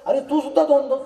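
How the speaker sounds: high, loud startled cry; shocked exclaim. Acted. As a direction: blurt it out in alarm. Drunk friend sees double, exclaims. (मित्राला दोन दोन दिसतात, म्हणून घाबरून ओरडतो)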